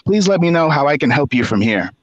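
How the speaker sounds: measured, slightly formal read-out; reading an email aloud. Retold or imitated. Reading out a manager's reprimand email, measured read-aloud.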